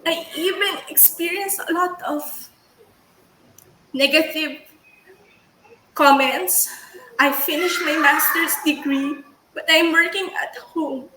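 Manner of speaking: shaky, tearful but steady; steady voice with shaky moments. Real, not acted. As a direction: push through the tears. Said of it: "So that's why I'm crying kasi".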